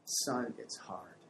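slow, soft and calm; slow down and comfort him; gentle reassurance. Shown as a demonstration. Parent comforting a crying son, slow soft reassurance. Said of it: "you say".

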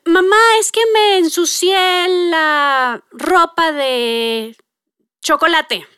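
put-on slow, sheepish child voice; lightly voiced little boy admitting a mess; child confessing. Child telling mom he got chocolate on his clothes, sheepish.

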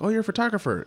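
imitated aunt, very high voice; high-pitched retold exclamation; aunt's reply. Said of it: "when my aunt, like, asked me".

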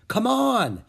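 high, loud urging call. A narrator's reading. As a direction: hurry him along. Annie urging Jack.

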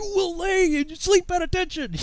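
slow, high-pitched sergeant's command; drill sergeant. Retold or imitated. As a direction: draw the order out high to scare recruits. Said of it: "They scared us to death".

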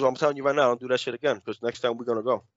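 low, soft, unhurried warning; retold real calm. Classmate warning another before walking off, real calm. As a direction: warn him without any yelling. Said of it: "real calm about it. Not yelling, not pushing".

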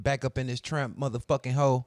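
cussing tough-guy intro; hard drill-style hype delivery; drill rapper voice. Pretend. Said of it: "let me add some cussing to my shit".

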